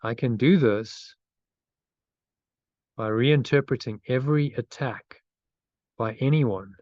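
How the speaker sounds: meditative phrase-by-phrase reading, long pauses; slow affirmation reading. Real, not acted. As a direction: lead a repeat-after-me affirmation, unhurried. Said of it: "so I'll read it slowly".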